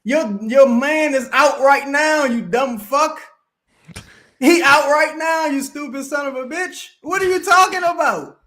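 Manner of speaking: rising into a real angry yell at the commenter; angry rant. Real, not acted. Host tearing into a clueless commenter on stream, angry yelling.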